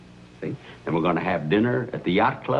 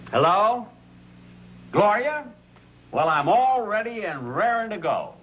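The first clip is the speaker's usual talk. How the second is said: high, eager hello into the phone; thrilled she's finally calling; eager and excited; 10 semitones higher than usual. Real, not acted. Eager call to his date.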